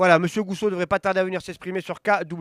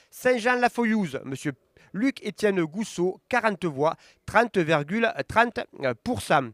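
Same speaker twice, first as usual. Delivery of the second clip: results read-out; slower than usual. Acted. Reading election results to viewers, steady announcer voice. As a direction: call each town, then the numbers. Reads commune results aloud.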